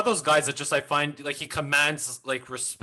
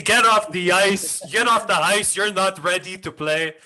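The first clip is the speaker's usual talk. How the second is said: mock coach order; 3 semitones higher than usual. Friend imitating coach scolding.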